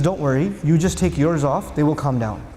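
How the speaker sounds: wife reassuring her husband, low and gentle. Retold or imitated.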